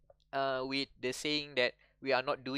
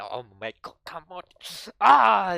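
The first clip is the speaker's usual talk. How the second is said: mock whining that builds to a loud groan; imitated complainer's tantrum; moaning and bitching; 5 semitones higher, 12 dB louder than usual. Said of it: "his moaning and bitching moment".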